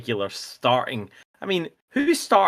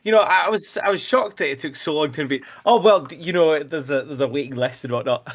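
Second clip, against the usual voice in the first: playing interviewed guest. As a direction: lightly act out your own reply as the honoured guest. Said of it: "do both sides of the conversation".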